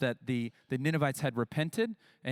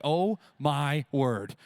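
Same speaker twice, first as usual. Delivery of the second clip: slow, drawn-out, louder sigh of heat; exasperated groan; 4 dB louder, much slower than usual. Retold or imitated. Congregation sweating through camp heat, slow exasperated groan. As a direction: groan it like you're melting. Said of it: "where you're like".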